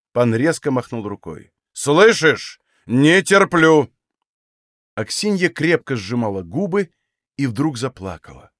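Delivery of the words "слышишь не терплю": loud, slow hammering threat; angry shout. Acted. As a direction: bang out each word at her. Master repeats threat.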